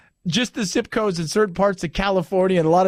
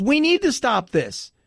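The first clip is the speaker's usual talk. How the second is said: slow, higher, retold insistence; imitated mad; 4 semitones higher, slower than usual. Mexican immigrant insists it has to stop, imitated frustration. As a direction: mimic his frustrated demand. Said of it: "he was mad because he had done it right".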